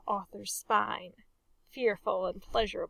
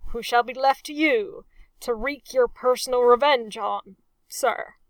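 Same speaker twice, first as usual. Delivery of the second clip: hasty addition; 2 semitones higher, 7 dB louder than usual. A narrator's reading. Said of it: "Pendersley hastened to add".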